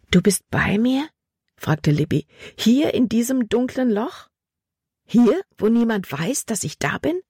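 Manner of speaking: high, anxious questioning; anxious pleading. Acted. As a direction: plead in the dark for reassurance. Libby fragt Gott ängstlich. (ängstlich flehend, hohe Stimme)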